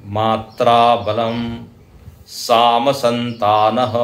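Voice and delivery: very slow measured recitation of the verse. Shown as a demonstration. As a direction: recite it word by word. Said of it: "reciting the shiksha verse". (धीमा श्लोक पाठ)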